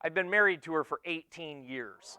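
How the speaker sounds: said low and soft, almost to himself; a quiet, proud aside; low soft statement. Real, not acted. Telling the crowd how long he's been married, low and soft. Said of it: "For real".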